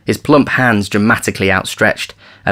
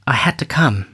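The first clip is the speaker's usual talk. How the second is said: hushed whispered confession; 5 semitones higher than usual. A narrator's reading. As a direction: whisper it shyly. She whispers to lover.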